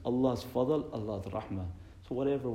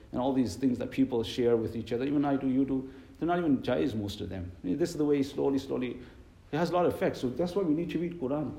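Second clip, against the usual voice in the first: louder, raised sermon voice; impassioned preaching; 3 semitones higher, 4 dB louder than usual. Real, not acted. Preacher warning the congregation about shared messages, impassioned preaching. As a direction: press the warning home with rising force.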